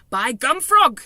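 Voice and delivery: loud, high giant exclamation; excited cry. A narrator's reading. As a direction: burst out with a sudden idea. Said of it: "he cried".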